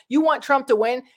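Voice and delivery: disbelieving question, rising at the end; incredulous. Real, not acted. Vlogger firing the fan's words back, incredulous.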